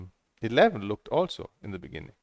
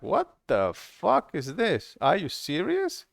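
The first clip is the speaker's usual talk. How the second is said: incredulous retort; 5 semitones higher, slower than usual. Retold or imitated. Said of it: "This was like".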